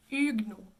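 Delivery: "Huguenots" as two French syllables, üg-NO; no schwa. Shown as a demonstration. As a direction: say "Huguenots" with G running straight into N. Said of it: "no shadow voweling or schwas".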